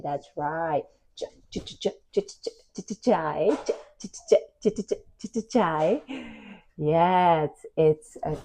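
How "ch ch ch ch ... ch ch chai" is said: long run of soft "ch-" then "chai"; teacher sounding out "chai". Shown as a demonstration. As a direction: whisper the ch many times then say "chai". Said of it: "Do you see this word here".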